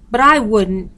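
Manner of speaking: put-on a child blurting in protest; blurted out. A narrator's reading. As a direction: burst out before thinking. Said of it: "Yuki blurted out".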